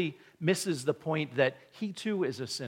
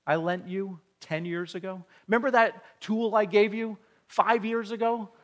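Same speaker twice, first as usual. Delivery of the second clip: higher and louder, pushy demand; demanding creditor; 6 semitones higher, 5 dB louder than usual. Retold or imitated. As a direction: hound the neighbors for every dollar. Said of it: "and says".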